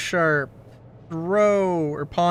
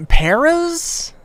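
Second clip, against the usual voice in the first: squeaky high voice; 12 semitones higher, 5 dB louder than usual. Pretend. High mock question.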